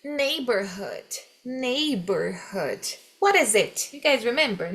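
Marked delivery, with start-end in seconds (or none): 0.0-3.0 neighborhood said very slowly and clearly; slow, careful teacher demo; slow model word. Shown as a demonstration. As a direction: spell it out by sound for the class. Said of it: "E o próximo aqui".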